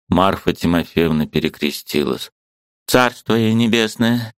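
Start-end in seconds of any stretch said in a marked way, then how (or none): none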